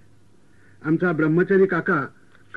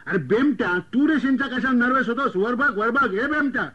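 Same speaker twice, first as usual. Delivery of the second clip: higher, teasing shout at the groom; uncle's mock shout; 4 semitones higher than usual. Uncle teases the nervous groom at the feast, pitched up and hollering. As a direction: call out from across the feast hall. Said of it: "पुन्हा ओरडला".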